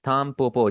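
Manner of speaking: थाम पोपो with n turned to m before p; Japanese tanpopo. Shown as a demonstration. Teacher models the word for dandelion: m before p in थाम पोपो. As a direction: close the lips early: थाम पोपो. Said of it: "थाम पोपो हम इसे pronounce करेंगे".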